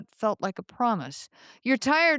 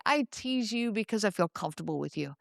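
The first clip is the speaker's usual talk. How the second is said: warm mock reassurance; 3 semitones lower than usual. Partner warmly excusing a disrespectful joke, gently soothing. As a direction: play it as a cozy, loving excuse. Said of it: "they warmly say".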